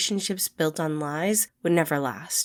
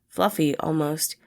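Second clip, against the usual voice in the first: ordinary delivery, nothing marked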